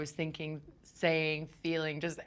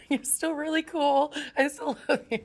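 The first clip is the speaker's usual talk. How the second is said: flustered fan gush; 8 semitones higher, 5 dB louder than usual. Retold or imitated. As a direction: gush nervously at your idol. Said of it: "stuttering when I speak to him".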